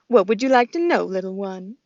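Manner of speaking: goose voice. Acted. Loudwing the goose speaks.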